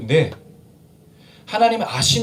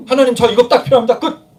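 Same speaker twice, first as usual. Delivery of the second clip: cool and curt; 2 semitones higher, 6 dB louder than usual. Acted. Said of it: "저는 쿨한 사람이에요. 뒤끝이 없어요".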